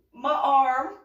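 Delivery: high, loud, defensive blurt; evasive blurting. Retold or imitated. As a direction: act a badly hidden secret. Evasive answer, hiding her arm.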